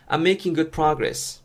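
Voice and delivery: very slow, every syllable laid out; slow model reading. Shown as a demonstration. English teacher modeling the phrase for learners, very slow. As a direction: model it slowly for students to copy. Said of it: "듣고 따라해보세요".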